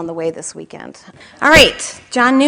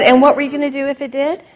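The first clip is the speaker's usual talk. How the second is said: husband's teasing question; 7 semitones higher, 6 dB louder, faster than usual. Retold or imitated. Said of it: "And he said".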